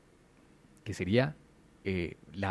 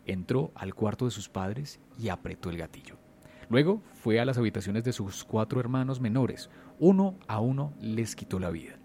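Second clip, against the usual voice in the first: dramatic storyteller with measured pauses; suspense story narration. A narrator's reading. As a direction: tell it like a true horror tale, punching the openings of phrases. Tells a horror story.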